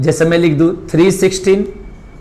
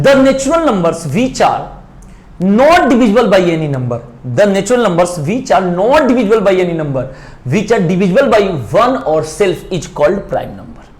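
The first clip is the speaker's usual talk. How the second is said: slow, word-by-word dictation of a definition; 2 semitones higher, much slower than usual. Shown as a demonstration. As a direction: read it out slowly so students can write it down. Dictates English definition slowly. (धीमे-धीमे लिखवाते हुए)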